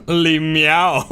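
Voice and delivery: le meow through giggles; giggly cat-pun voice; laughing. Real, not acted.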